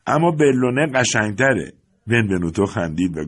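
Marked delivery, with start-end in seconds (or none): 0.1-1.7 slow, higher and louder, sing-song teasing; teasing chorus. A narrator's reading. The children together teasing Benvenuto, slow mock chant. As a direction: drag out "اما بلونه قشنگتره" like kids mocking a friend. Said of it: "همگی با هم گفتند".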